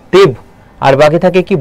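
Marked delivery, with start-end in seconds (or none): 0.1-0.3 তীব said as "tib", closed on the first b; doubled b. Shown as a demonstration. Teacher showing students the doubled b, তীব ending on b. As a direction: stop firmly on the b in তীব. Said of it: "এই জন্য বটা হবে দুইবার".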